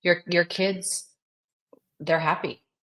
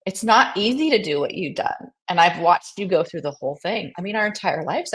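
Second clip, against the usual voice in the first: tearful; 4 semitones higher, 4 dB louder than usual. Real, not acted. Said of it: "I don't wanna cry, but I'm so emotional".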